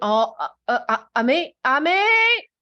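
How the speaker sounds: stumble, then repeat it in mock disbelief; acted dismay. Friend hearing the company name on the phone, mock taken aback.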